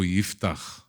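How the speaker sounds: Yiftach said the Hebrew way, throaty ch at the end; Hebrew pronunciation. Shown as a demonstration. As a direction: say Yiftach as in Hebrew, not Jephthah. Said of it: "we say in Hebrew".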